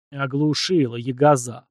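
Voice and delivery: usual speaking voice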